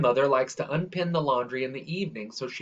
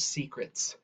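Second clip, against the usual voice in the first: whispered; 9 dB quieter than usual. A narrator's reading. Narrator whispers the lemon tree's secrets to the listener. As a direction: breathe the word out as a soft whisper.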